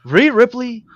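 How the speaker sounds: slow, spaced-out main event introduction; measured ring-announcer delivery; announcer build-up. Acted. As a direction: announce the title match grandly, pausing between names.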